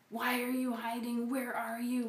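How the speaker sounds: a light hint of a stern God; mock demanding God. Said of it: "instead of an angry God who's demanding".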